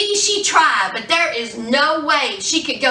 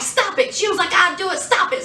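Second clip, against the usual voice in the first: imitated plea; 5 semitones higher, faster than usual.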